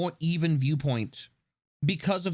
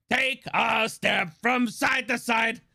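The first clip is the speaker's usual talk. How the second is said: cartoon Mario shout; 3 semitones higher, much slower than usual. Mimicking the Super Show theme.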